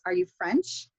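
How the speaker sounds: "Are you French" climbing at the end; rising intonation. Shown as a demonstration. Teacher repeating a yes-no question example, rising intonation. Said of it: "Rising intonation, we use with yes, no questions".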